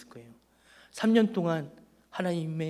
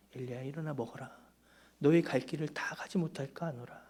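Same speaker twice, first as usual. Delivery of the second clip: tender voice of God; 5 dB quieter than usual. Acted. God's words restated tenderly to Elijah.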